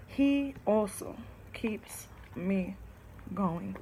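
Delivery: slow soft whisper. Acted. Reading her poem, whispering her thanks to God. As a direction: breathe it quietly and slowly.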